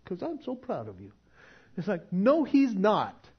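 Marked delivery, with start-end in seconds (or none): 0.0-1.1 sarcastic praise. Pretend. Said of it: "You think He's going".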